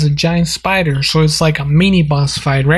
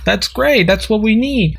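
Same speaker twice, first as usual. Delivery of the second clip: mock amazement; 6 semitones higher than usual. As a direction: stretch out a big amazed whoa, higher. Amazed at the Deku offer.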